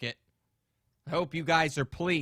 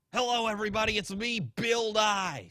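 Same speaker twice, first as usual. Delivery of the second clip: cheery TV-host welcome, slowed and a touch higher; Bill Nye voice; 4 semitones higher than usual. Acted. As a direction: slip back into the science-host persona. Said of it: "Sean Lewin came out of me there".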